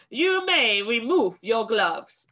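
a harsh witch shouting at her coven. Acted. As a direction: lay down the order to the room. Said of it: "she shouted".

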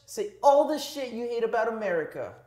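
high-pitched anime character voice; squeaky overacted anime voice. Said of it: "Anime voice, anime voice".

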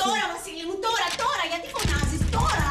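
high, syrupy cover-up greeting; sugary fake welcome. Aunt greets her nephew with a fake high sweetness. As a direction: sing it out sweetly to hide the panic.

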